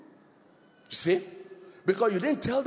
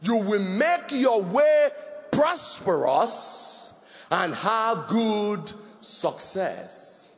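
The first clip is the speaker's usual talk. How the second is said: scripture read with fervour. Retold or imitated. Preacher quoting Joshua to the congregation, fervent reading. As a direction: declaim the verse like a proclamation. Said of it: "It says".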